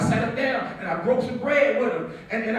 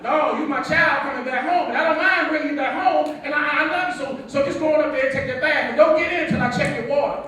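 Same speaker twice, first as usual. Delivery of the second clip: louder, higher, firm father laying down rules; stern father; 4 semitones higher, 5 dB louder than usual. Retold or imitated. Father firmly ordering his grown son to bathe. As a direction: scold him like a strict dad.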